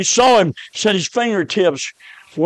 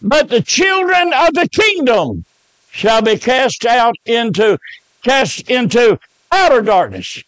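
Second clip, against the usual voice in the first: scripture reading; 3 semitones higher than usual. Acted. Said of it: "The Bible said in Matthew".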